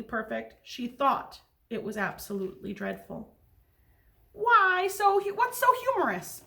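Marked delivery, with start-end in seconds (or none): 4.3-6.4 music teacher. Acted. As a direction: sing the question up high like a gentle music teacher. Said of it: "said Missus Twinkle".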